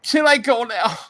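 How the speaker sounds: high, small pleading voice; meek plea. Retold or imitated. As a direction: ask timidly to be let go.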